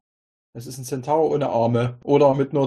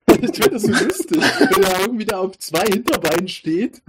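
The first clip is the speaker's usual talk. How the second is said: clipping distorted mic; 6 semitones higher than usual. Real, not acted. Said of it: "du übersteuerst ein bisschen".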